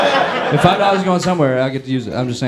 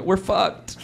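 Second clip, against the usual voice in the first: higher, whiny pleading appeal; desperate fundraiser; 3 semitones higher than usual. Acted. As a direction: beg like a sad donation drive. Democrats' desperate fundraising email.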